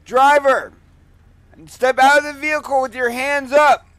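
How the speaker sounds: booming police loudspeaker commands; bullhorn with siren. Real, not acted. Police stop commands over loudspeaker.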